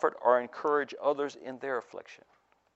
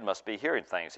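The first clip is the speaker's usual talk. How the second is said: 1 muttered; 2 semitones lower, 7 dB quieter than usual. A narrator's reading. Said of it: "he muttered".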